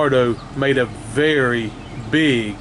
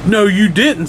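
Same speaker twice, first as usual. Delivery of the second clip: put-on sharp child's retort, a bit higher; snapped; 5 semitones higher than usual. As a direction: snap back at the monster. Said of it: "snapped Sam".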